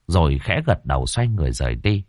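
plain reading voice

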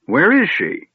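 put-on high, sharp old wizard demanding; the vague mage suddenly all business; stern demand. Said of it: "The old man demanded sternly".

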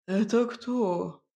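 медленно, ревниво; допрашивает ревниво; ревнивый Илья. A narrator's reading. (ревнивый бас, медленно)

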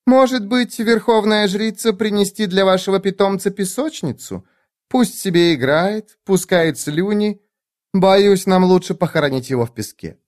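mocking lady. A narrator's reading.

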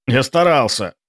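plain reading voice

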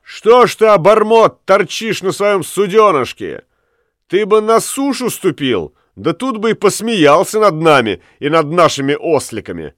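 shouting taunt. A narrator's reading. Ulenspiegel shouts to the bargeman on his boat. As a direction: shout a mocking challenge. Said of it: "крикнул".

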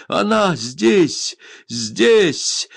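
high, slow, loud cry of joy, stretching each word; joyful cry. A narrator's reading. Indian learns his lost Ada is here, shouting with joy. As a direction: burst out in stunned delight. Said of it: "крикнул он".

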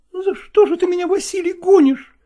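offended woman. Acted. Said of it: "обидчиво сказала Настина".

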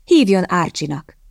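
slow, earnest plea; pleading. Acted. Young man begging Kitty to use his name, slow plea. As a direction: beg her gently, slowly. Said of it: "esedezett a fiatalember".

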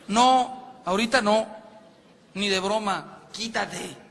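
un no alto y fuerte, fastidiado; échala con fastidio, sin mirarla; marido molesto a gritos. Retold or imitated. Marido actuado viendo el fútbol. (marido viendo la final rechaza a la esposa, gritando molesto)

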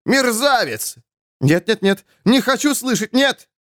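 high-pitched indignant protest; outraged cries. A narrator's reading. Crowd rejects the man's denunciation, crying out in outrage. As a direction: cry out, refusing to listen.

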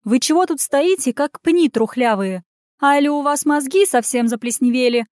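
a hint of a granny pretending she can't breathe; mock choking granny; granny fake wheeze. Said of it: "так страшно сипела и кашляла".

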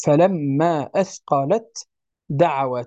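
فلما أثقلت said slowly, letter by letter; slow articulation. Shown as a demonstration. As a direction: stretch out أثقلت. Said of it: "تاء مع دال". (نطق بطيء لكلمة أثقلت)

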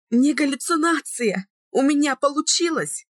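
high, bursting with joy; joyful exclaim. A narrator's reading. Heroine sees her lover awake, joyful high cry. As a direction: cry it out in happy disbelief. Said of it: "радостно воскликнула я".

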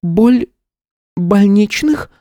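high, meek, stumbling question; puzzled woman. Acted. Woman hearing an unknown word, puzzled. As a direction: stumble over the strange word. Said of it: "услышала непонятное слово".

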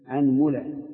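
أنملة as anmula, u on the meem; أنملة: a-nmu-la; fatha then damma. Shown as a demonstration. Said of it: "ضمه مع فتحها".

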